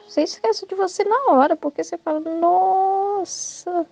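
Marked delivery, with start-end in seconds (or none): 2.2-3.9 stunned dismay. Acted. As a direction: stretch it out, acting devastated. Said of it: "você fica acabado". ("nossa" arrastado, fingindo estar acabado)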